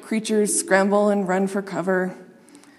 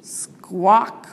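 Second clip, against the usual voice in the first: goose squawk. A narrator's reading. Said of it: "went the geese".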